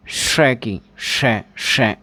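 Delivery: "श" said as a drawn-out hushing sh; the sh sound. Shown as a demonstration. Teacher isolating the final sh sound of wash. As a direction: hold the hiss of "श" alone. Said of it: "last में जो ध्वनि आ रही है".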